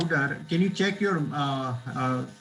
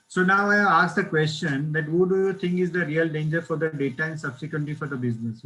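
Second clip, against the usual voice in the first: louder, projecting to the call; speaking up; 5 dB louder than usual. Real, not acted. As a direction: push the voice out so all hear. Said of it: "can you speak little loudly".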